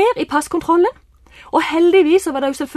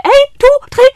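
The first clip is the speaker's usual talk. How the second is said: breathless counting; 11 semitones higher, 10 dB louder than usual. Retold or imitated.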